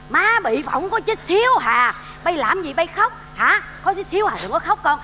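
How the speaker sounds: soothing. Acted. Comforts son said to be crying.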